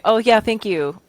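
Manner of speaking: polite deflection of a compliment; brushing off. Shown as a demonstration. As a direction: toss off the thanks without taking it in. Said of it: "you're not actually taking in the compliment".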